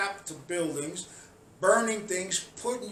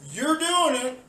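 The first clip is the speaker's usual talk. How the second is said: high, loud shouted accusation with a laugh; furious rant; 9 semitones higher, 7 dB louder than usual. Real, not acted. Ranting at protesters, shouting high and loud. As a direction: shout it at them in disbelief.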